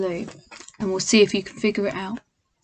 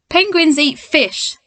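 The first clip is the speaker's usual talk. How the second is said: stern; 5 semitones higher, slower than usual. Acted. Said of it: "said the man sternly".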